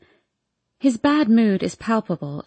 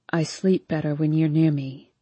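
confessing; 5 semitones lower than usual. A narrator's reading. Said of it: "he says like it's a confession".

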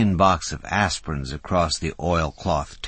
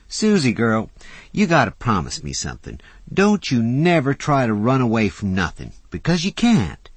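urgent plea; 9 semitones higher, 6 dB louder than usual. A narrator's reading. Fauna urgently pleads with Susie.

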